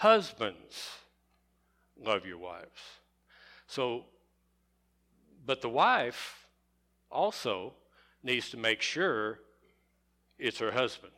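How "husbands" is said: stress on the word 'husbands'. Speaker showing how stressing the first word changes it, stressing 'husbands'. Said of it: "When you emphasize that first word".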